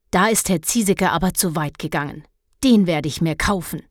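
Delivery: she's had enough of that teacher; angry mother. Acted. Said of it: "warf es wütend". (empörte Mutter, schnell und etwas lauter)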